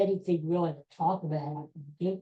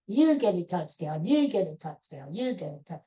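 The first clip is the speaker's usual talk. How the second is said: Oprah giveaway. Retold or imitated. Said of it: "Oprah was just giving out the touchdowns".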